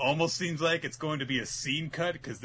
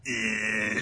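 grimacing noise; 3 semitones lower than usual. Retold or imitated. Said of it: "then she just goes".

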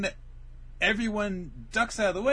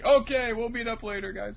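acted farewell call; 8 semitones higher than usual. Acted parting call to friends.

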